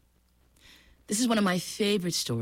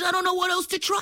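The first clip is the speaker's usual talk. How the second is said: crocodile whine; 13 semitones higher, faster than usual. Acted. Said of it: "He said".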